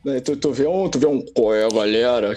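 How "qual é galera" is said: low, rough mock hungover voice; hungover voice imitation. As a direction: copy his gravelly morning-after greeting. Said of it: "aquela voz grossa pós, quando a pessoa tá estragada".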